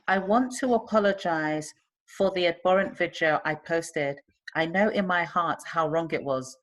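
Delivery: slow, measured read-out; reading aloud. Retold or imitated. Host reads the student's apology to friends, slow measured reading. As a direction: read it slowly, phrase by phrase.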